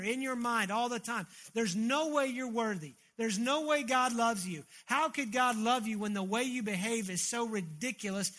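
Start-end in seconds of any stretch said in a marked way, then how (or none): 1.5-8.3 raised, insistent voice of an accuser; acted accusing shout. The devil shouting in a believer's ear, mild acted shout. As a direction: hammer out the condemnation, mildly shouted. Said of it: "He is gonna be shouting in your ear".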